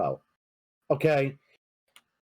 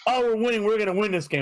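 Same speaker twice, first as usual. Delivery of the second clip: put-on excited kid; 5 semitones higher, faster than usual. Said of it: "he'll be like".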